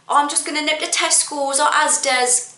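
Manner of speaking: "Tesco's" and "Asda's" each with an extra S; imitating people who say "Tesco's" and "Asda's"; added final S. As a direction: quote the mistake, "Tesco's or Asda's" ending in S. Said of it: "add an unnecessary S onto the end".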